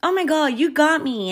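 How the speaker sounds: high fake-playful voice, imitating; mock playful. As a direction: play it off in a sing-song way. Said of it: "she's like".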